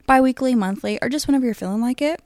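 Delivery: talking through hiccups; hiccuping mid-sentence. Real, not acted. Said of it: "Sorry, I have the hiccups".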